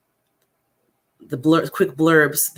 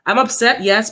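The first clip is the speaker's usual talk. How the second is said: upset, pitched up high; 5 semitones higher than usual. Real, not acted. Admitting the feeling to viewers, upset. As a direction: admit real upset, voice lifting. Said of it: "to dissect why I'm upset".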